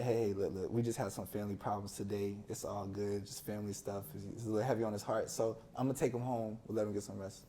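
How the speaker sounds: calmly smooth it over with the coach; dad calmly explaining. Retold or imitated.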